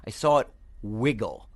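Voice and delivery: lightly voiced griffin, slow and suspenseful; griffin reporting back. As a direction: draw out the scout's report, lightly in character. Game master voices the griffin.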